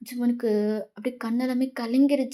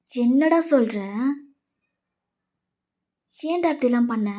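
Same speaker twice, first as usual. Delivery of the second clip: louder, incredulous confrontation; shocked disbelief; 3 dB louder than usual. Acted. Friend confronting Jimin over what he did, shocked and reproachful. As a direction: demand an explanation from a friend.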